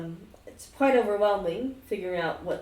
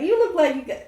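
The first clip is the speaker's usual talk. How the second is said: ghost voice; 10 semitones higher, 8 dB louder than usual. Acted. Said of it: "He's like".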